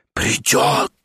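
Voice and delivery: a low, breathy whisper full of certainty; convinced whisper. A narrator's reading. Stepan whispers his certainty to the narrator. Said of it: "прошептал он с глубоким убеждением".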